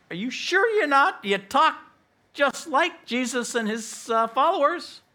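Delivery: high-pitched challenge; acted incredulous questioning; challenging accusers. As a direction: press the suspect, voice pushed up high. Preacher voices accusers challenging Peter.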